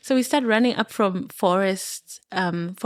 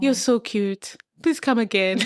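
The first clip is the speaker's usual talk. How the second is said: laughing cheerful invite. Retold or imitated. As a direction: laugh the words out. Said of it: "He's like".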